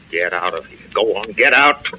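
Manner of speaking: simmering, understated command to leave; contained anger. Acted. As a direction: order them out with held-back anger. Actor orders agent out, simmering.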